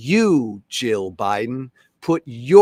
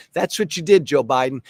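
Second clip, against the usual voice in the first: angry accusation; 4 dB louder, faster than usual. Real, not acted. Ranting at Biden directly.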